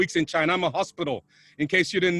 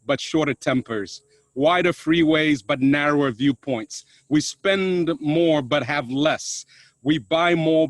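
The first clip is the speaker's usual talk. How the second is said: measured recitation; 2 semitones lower, 3 dB louder than usual. Acted. Speaker opens his talk with a piece on paradox, measured recitation. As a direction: recite each contrast deliberately, letting the second half fall.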